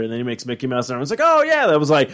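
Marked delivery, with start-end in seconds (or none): 1.2-1.7 higher, put-on crowd approval; mock enthusiasm. Co-host voices everyone approving Mickey Mouse, mock enthusiasm. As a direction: cheer along as the imagined crowd.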